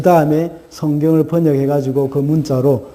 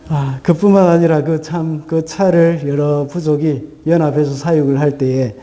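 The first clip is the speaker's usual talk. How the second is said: usual speaking voice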